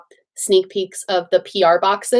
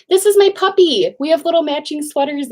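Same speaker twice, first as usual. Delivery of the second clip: excited; 6 semitones higher than usual. Real, not acted. Introducing puppy again, excited.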